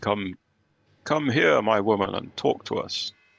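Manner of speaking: magically booming voice. A character speaks through a spell that makes the voice boom: booming voice. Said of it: "make my voice boom".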